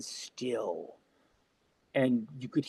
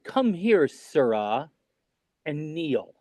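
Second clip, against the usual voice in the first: retold queen's mildly stern command; lightly imitated royal command; slower than usual. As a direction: order a subject to you, in measured pieces. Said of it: "she'd said it kind of sternly".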